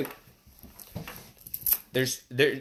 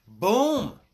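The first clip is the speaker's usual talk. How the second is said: boom; 7 semitones higher than usual. Real, not acted. Exclaiming result.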